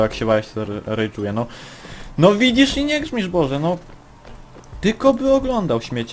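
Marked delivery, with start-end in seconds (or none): 2.2-5.8 high, loud exasperated cry; exasperated outburst. Real, not acted. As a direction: cry out in disbelief at the screen.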